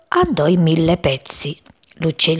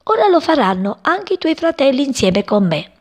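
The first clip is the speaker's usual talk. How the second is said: laughing; 8 semitones higher than usual. Acted. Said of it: "gli disse ridendo".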